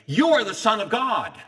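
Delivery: high, loud demonic cry of recognition; a demon yelling out who he is; shouting demon. Retold or imitated. Demons cry out to Jesus, as a loud shouting demon.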